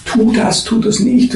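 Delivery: deutlich höher, leicht spöttisch nachgemacht; belehrender Ratgeber. Retold or imitated. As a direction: ein Ratgeber, halb spöttisch imitiert. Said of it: "Ratschläge". (über Ratschläge spottend, höher und nachgeäfft)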